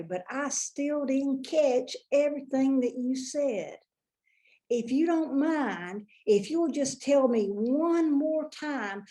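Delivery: slow, exaggerated Southern drawl, playing dumb; thick Southern drawl. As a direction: stretch every word in a put-on Southern accent. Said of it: "I was going to accentuate that Southern drawl".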